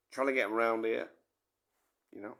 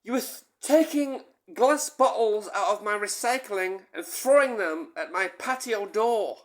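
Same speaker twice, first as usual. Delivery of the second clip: put-on accusing girlfriend; 6 semitones higher, 4 dB louder than usual. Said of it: "She said".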